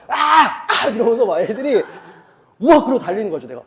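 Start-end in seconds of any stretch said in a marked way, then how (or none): 0.1-1.0 loud, high straining scream; kids' yelling imitated. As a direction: scream like kids running drills. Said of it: "그러니까 애들이 막". (훈련받는 아이들의 악쓰는 소리 흉내)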